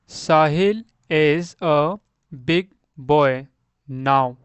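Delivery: word by word, slowly and loudly, pauses between; slow model reading. Shown as a demonstration. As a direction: read it out slowly for beginners. (धीरे-धीरे, शब्द-दर-शब्द पढ़ना)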